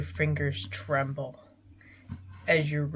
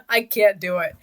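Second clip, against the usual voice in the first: tipsy, slurring slightly; 4 semitones higher than usual. Real, not acted. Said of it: "I'm very drunk right now".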